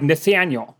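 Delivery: "Nathaniel" with overdone Boston vowels; exaggerated Boston accent. Shown as a demonstration. Host demonstrates the name for analyst, exaggerated Boston accent. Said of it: "That's a bit exaggerated".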